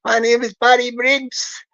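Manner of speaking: put-on lightly drawled Louisiana accent. Scammer Barry giving his name, in a put-on Louisiana accent. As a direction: introduce yourself in a fake Louisiana accent. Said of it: "speak with his American Louisiana accent".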